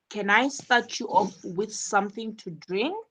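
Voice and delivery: yes-no question rising on "drink"; rising question intonation. Shown as a demonstration. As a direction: let the pitch lift at the end on "drink". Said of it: "the intonation rises at the end".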